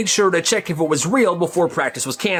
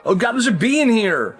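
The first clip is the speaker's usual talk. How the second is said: put-on higher, mildly panicked kid; acted rising alarm; 5 semitones higher than usual. Kid first notices a bee.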